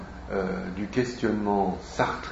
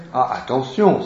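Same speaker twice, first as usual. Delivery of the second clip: louder, lightly acted cry of warning; exclaimed warning; 5 dB louder than usual. Uncle cautions his friend about the niece, exclaiming. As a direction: call out a brief warning. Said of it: "s'écria Gabriel".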